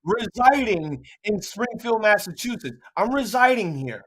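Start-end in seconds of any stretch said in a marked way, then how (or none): 0.0-2.8 slow, drawn-out ring announcer intro; wrestling announcer. Shown as a demonstration. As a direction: stretch each word like a mild ring announcement. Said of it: "Do it like the wrestler".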